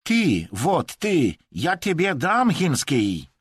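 high, loud heated retort; indignant outburst. A narrator's reading. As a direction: flare up and threaten. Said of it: "zaperzył się Chińczyk". (zaperzony, podniesiony głos)

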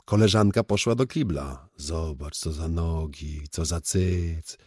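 eager start slowing into savouring admiration; admiring delight. Acted. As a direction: marvel at her, lingering on the last words. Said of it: "zachwycił się". (zachwyt, coraz wolniej smakowany)

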